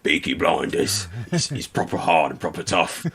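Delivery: light mock hard-man Brummie; Peaky Blinders Birmingham accent. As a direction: put on a tough old Birmingham accent. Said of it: "no one speaks like the Peaky Blinders".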